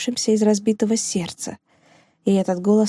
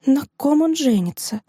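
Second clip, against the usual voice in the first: strained voice; 6 semitones higher than usual. Acted. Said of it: "сдавленным голосом спросила Розина".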